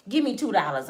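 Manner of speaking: ordinary talk, nothing marked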